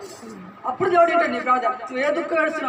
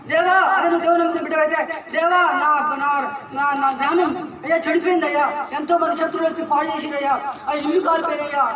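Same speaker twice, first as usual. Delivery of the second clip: louder pleading cry to God, mildly acted; lamenting prayer; 4 dB louder than usual. Believer crying out to God for his ruined village, louder pleading lament.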